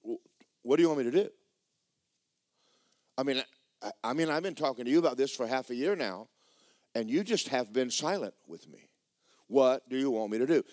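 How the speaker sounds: mildly exasperated pleading with God; retold frustration, pressing the question; put-upon, insistent complaint; aggravated. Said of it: "I'm a little aggravated".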